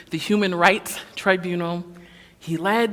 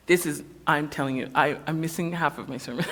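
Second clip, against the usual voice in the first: fumbling for words; 3 semitones lower, 4 dB quieter, faster than usual. Real, not acted. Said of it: "if I sound like I'm stumbling".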